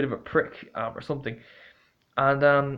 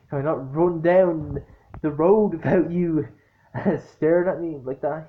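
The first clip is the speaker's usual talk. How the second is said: laughing retort; 3 semitones higher than usual. Retold or imitated. Retorting to staring woman.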